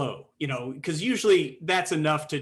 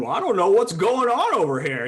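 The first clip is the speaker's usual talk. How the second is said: raised, fed-up, exasperated voice; 5 semitones higher, 7 dB louder than usual. A game master shows how he voices a town mayor: exasperated town mayor voice. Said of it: "the mayor of the town that's exasperated".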